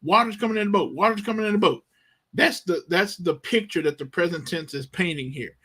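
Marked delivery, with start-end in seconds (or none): 0.0-1.8 higher, urgent cries to wake him; mock panicked scream. Disciples panicking, shouting at sleeping Jesus, high and urgent. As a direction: act out the frantic disciples. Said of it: "They're screaming".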